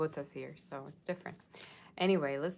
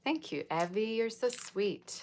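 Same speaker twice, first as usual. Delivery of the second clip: drawn-out, affectionate thank-you; sweet thanks; 6 semitones higher, slower than usual. Real, not acted. Streamer thanking a viewer for kindness, sweetly. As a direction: thank them fondly, stretching the compliment.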